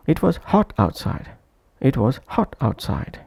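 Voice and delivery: "hot" said with extra breath force; stress on HOT. Shown as a demonstration. Teacher giving an example of a stressed content word, "hot" emphasized. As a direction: put the weight on "hot". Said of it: "the sole syllable should be stressed".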